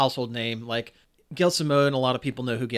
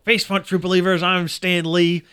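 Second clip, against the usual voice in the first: lightly voiced showman greeting, pitched up; light impression of a showy cameo entrance; Stan Lee; 5 semitones higher, 5 dB louder than usual. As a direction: hail the fans a little higher, slowing into the name. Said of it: "you know, he's like".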